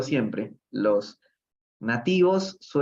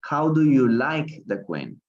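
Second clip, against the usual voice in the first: slow careful repeat; slower than usual. Shown as a demonstration. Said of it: "una pregunta muy interesante".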